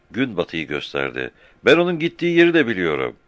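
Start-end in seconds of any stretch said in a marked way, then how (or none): 1.6-3.1 put-on high, louder child's voice answering the captain; young boy answering fast; shepherd boy. Frightened shepherd boy answering the captain, high child voice.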